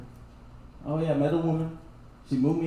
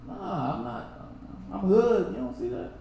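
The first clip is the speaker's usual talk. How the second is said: softer, half-muttered protest; indignant inner voice; 4 semitones higher, 6 dB quieter than usual. Retold or imitated. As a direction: mutter it like an offended kid. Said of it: "You're like".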